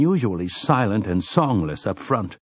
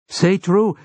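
fierce cry; 9 semitones higher than usual. A narrator's reading. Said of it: "rang out with clear ferocity".

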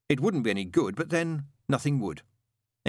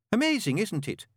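happily; 10 semitones higher than usual. A narrator's reading. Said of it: "said Newt happily".

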